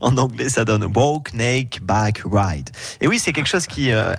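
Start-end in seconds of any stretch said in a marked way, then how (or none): 0.9-2.7 "Walk, Naked, Bike, Ride" said in English with a French accent. Shown as a demonstration. Radio reporter reads the English event name, "Walk, Naked, Bike, Ride", in a French accent. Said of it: "Vous moquez pas de mon accent".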